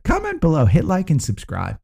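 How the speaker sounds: leaps very high on comment below; upbeat YouTuber sign-off; influencer voice. Acted. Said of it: "my influencer voice there".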